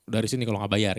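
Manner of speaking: a touch of angry threat; mildly angry landlord. Acted. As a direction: act out an irate building owner, lightly. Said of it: "ya marah gitu loh".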